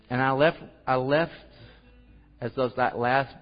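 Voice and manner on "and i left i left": ordinary delivery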